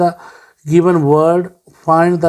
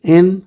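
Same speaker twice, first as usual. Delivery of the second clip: "in" said alone as one separate beat; isolated syllable; 3 semitones higher, 4 dB louder than usual. Shown as a demonstration. Teacher counting the first syllable, "in" on its own. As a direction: set "in" apart, pause after it. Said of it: "ये one".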